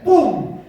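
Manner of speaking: sudden loud, high "pum"; explosive burst on one word; imitated impact. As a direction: punch out a sudden boom. Imitates the Spirit suddenly falling.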